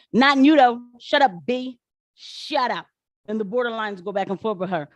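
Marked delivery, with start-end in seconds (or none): 0.1-2.9 raised, higher mock heckle; imitated yelling. People telling the woman to shut up, mock yelling. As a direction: shout her down like the crowd. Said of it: "people are yelling at this woman".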